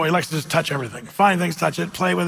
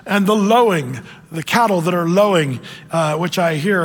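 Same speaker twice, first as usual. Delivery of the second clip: prophet Samuel. Retold or imitated. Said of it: "and Samuel says".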